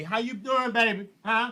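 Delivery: softened sweet-talk; flirty greeting. Acted. Greeting a partner picking you up, flirty. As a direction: greet your lover softly, voice lifted. Acted airport pickup greeting.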